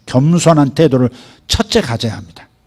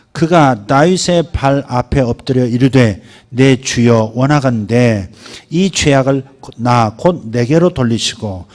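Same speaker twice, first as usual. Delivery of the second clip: slow scripture reading; 3 semitones lower than usual. Acted. Pastor reads Abigail's plea, slow and weighty. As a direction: read the verse slowly and gravely.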